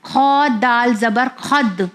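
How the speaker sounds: slow spelling, خد with a bounced final d; خد ending in a small echo of d; qalqalah on خد. Shown as a demonstration. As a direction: make the d of خد sound twice. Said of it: "دال کا sound دو بار آئے گا".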